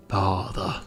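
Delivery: whispered, absent call. Acted. Professor waiting at the window, whispering.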